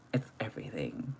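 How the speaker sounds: whispered it's everything. Real, not acted. To viewers, praising the palette, a whisper. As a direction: breathe it out like a secret.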